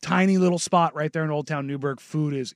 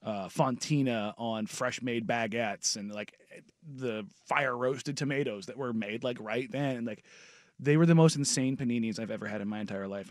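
sultry food talk; 2 semitones lower, 4 dB quieter than usual. Real, not acted. Describing paninis to co-hosts, half-joking sultry murmur. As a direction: savor each food like pillow talk. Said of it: "did anybody else notice that his voice changed".

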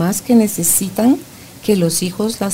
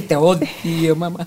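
put-on resentful child; 3 semitones lower, much slower than usual. The host voicing a child telling his mother he hates her, sullen. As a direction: say it like a child who means to hurt.

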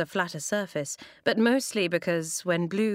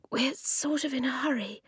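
whispered; 6 semitones higher than usual. A narrator's reading. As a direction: whisper urgently. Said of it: "Eska whispered".

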